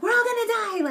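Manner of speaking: high, hammed-up wail of doom; dramatic movie quote. Retelling the Bridesmaids plane scene, hammed-up hysteria. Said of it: "that scene from The Bridesmaids".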